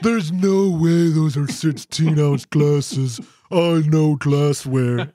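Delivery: slow, assured know-it-all, lightly imitated; mock confident Todd. Mimicking Todd at the bar, slow and smug. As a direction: drag it out like a smug expert. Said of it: "You're like".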